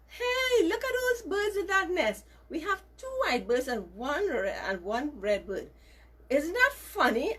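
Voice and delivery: a gossiping heron laughing at the odd nest; mocking heron.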